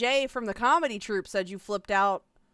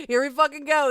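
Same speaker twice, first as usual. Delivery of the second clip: louder, higher hype; mock hype; 4 semitones higher, 8 dB louder, faster than usual. Real, not acted. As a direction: rev up the audience. Excited mocking of streamer.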